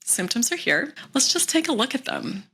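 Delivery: calmly notice the symptoms with interest; gentle and curious. Shown as a demonstration. Coach shows how to greet symptoms, gently curious. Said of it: "just gently like".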